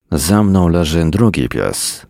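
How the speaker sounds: ordinary delivery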